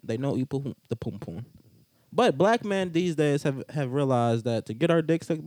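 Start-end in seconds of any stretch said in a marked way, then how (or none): 0.0-1.4 softer, trailing mock Jamaican accent; bad Jamaican accent. Repeating the pum pum joke, bad Jamaican accent. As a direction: echo the phrase in rough Jamaican. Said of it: "It's a bad Jamaican accent".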